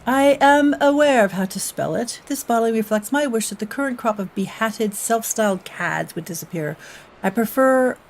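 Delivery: put-on playful French accent reading aloud. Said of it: "with my lovely French accent".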